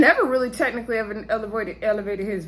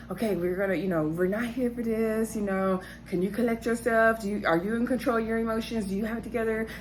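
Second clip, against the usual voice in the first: soft, hushed calming voice; quiet reassuring producer; soothing talk-down; 4 dB quieter than usual. Retold or imitated. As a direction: gently talk him off the ledge.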